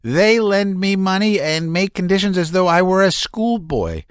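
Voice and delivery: high, strained, near hysterical; shouting Laevsky. A narrator's reading. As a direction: rant at the meddlers. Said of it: "shouted Laevsky".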